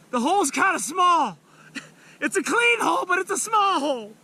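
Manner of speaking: high, laughing through the words. Real, not acted. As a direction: chuckle while struggling. Laughing while landing fish.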